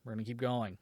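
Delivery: settling back into calm after anger. Real, not acted. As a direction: talk yourself down quietly. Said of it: "I'm gonna calm down a little bit".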